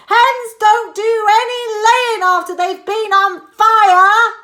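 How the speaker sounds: high, loud sing-song granny; high loud old woman, sing-song; Grandma sing-song. A narrator's reading. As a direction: lecture from the roof. Grandma keeps shouting.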